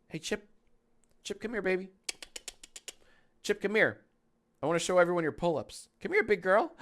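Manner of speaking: high sing-song dog-calling voice. Real, not acted. Calling her dog over.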